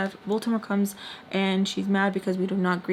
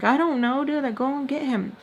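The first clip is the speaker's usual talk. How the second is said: retold outburst, pitched up; half-screamed, higher-pitched order; mild mock scream; 5 semitones higher than usual. Panicking and sending her to get him, mild mock scream. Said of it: "I'm just, like, screaming".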